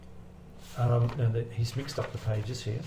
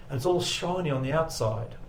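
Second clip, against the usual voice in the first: imitating the pilot; 4 semitones higher than usual. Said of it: "That's exactly how he said it".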